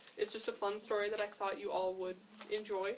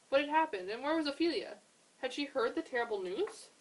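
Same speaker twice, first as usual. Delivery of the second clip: worried questions; 6 semitones higher, 4 dB louder than usual. A narrator's reading.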